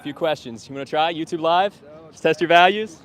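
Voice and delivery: high and loud street call; calling out loudly. Real, not acted. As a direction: shout the invitation across the street. Calling out to passersby.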